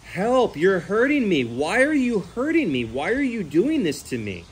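pleading pig. Retold or imitated. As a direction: plead like a hurt animal begging to stop. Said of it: "the pig is screaming".

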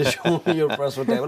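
slow British show heard as lie down; student mishearing the British officer; misheard British accent. Retold or imitated. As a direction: stretch show so it sounds like শো. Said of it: "British অ্যাকসেন্টে".

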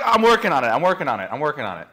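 embarrassed excuse dying away; sheepish fading. Pretend. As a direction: repeat it sheepishly, trailing off. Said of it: "you're like".

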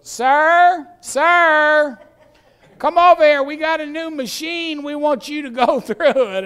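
high, loud official hailing someone; acted guard's loud summons; calling out. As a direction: call a passenger over from across the room. Acted TSA guard calling him over.

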